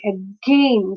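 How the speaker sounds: "again" slowly, a-GAIN; weak first syllable in "again", drawn-out "gain"; second-syllable stress. Shown as a demonstration. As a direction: lean on the second half of "again". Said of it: "there we put the stress".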